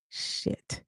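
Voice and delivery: breathy whispered shit; whispered curse. A narrator's reading. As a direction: whisper it under your breath. Narrator's dismay on reading card.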